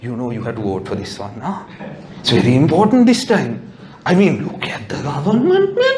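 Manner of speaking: a lightly voiced pushy friend; a hint of a campaigning friend; preachy election friend. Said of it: "she's like".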